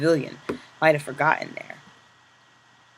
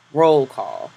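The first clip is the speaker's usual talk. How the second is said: loud curt command call; barked roll call; 5 dB louder than usual. Acted. Capo barking roll call to the assembled inmates.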